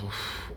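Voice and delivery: soft puff of breath; acted exhale of shock; shocked "oof". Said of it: "So the guy's shocked now".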